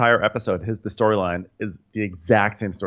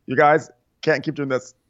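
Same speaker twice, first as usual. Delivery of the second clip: imitating Sierra; 6 semitones higher than usual. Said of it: "And Sierra's like".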